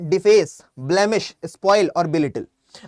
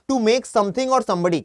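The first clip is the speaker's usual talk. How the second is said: slow definition read; much slower than usual. Shown as a demonstration. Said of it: "reading definition".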